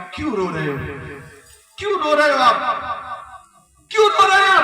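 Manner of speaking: rising again and again until it's a shout; boy asking, building. Retold or imitated. Boy to weeping maulana, building to a shout. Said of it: "وہ بچہ کہنے لگا".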